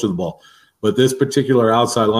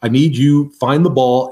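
coach's sideline yell; 4 semitones higher, 4 dB louder than usual. Retold or imitated. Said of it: "I said".

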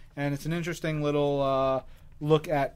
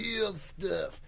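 goblin juice voice; 3 semitones higher, 7 dB quieter than usual. Pretend. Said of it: "that's my goblin juice voice".

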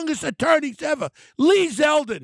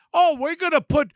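mocking the governor; 4 semitones higher than usual. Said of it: "Snaggletooth says".

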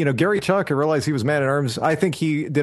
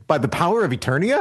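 "Eternia" swooping up as a question; quick, puzzled rise at the end of "Eternia"; questioning battle cry; 3 semitones higher, faster than usual. Retold or imitated. Co-host demonstrating how He-Man says it, questioning. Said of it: "It's like it's a question".

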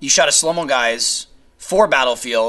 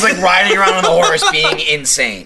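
ordinary delivery

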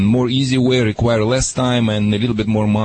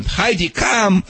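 raised firm call of Heidi, come; calling the dog; 6 semitones higher, slower than usual. Shown as a demonstration.

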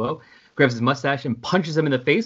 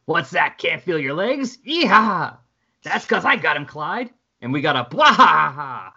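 wild unhinged ranting; 3 semitones higher than usual. Acted. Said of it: "laughing hysterically".

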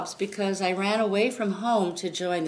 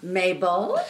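louder, perky stage-musical character voice; Mabel character voice; 6 dB louder than usual. Pretend. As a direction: pop into a lively Broadway role voice. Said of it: "My character voice".

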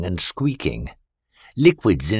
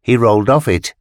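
ordinary delivery, nothing marked

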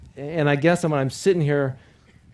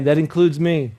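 louder, spaced phrases for the crowd to echo; loud call for repetition; 6 dB louder than usual. Shown as a demonstration. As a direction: call it out line by line for them to repeat. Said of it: "you gotta repeat that".

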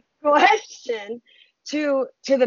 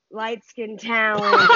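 laughing; slower than usual. Real, not acted. Punchline repeat with laugh.

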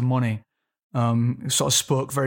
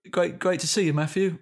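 lightly done East End Cockney; Cockney, with an F sound in Matthew; Cockney accent; 4 semitones higher than usual. Shown as a demonstration. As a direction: say it like a London Cockney. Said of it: "Let me hear a little Cockney".

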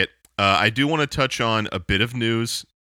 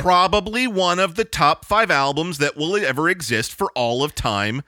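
bold quote; 5 semitones higher than usual. Retold or imitated. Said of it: "says Trapped".

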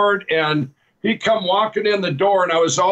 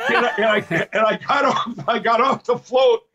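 laughing while telling; 4 semitones higher than usual. Real, not acted.

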